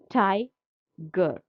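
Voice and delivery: "tiger" split in two, "ti" first and "ger" dropping after a pause; stressed then unstressed. Shown as a demonstration. Teacher showing the trochee in Blake's poem, syllable by syllable. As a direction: break "tiger" after "ti", letting "ger" fall. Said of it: "ti is stressed".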